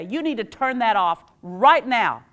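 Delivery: firm, slow parent command to switch off the TV; slow, loud no-nonsense order; stern order. Pretend. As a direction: lay down the law like a bossy parent. Adult ordering child to stop TV.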